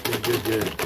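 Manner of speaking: calling out encouragement; loud coaching. Real, not acted. Coaching child to show number.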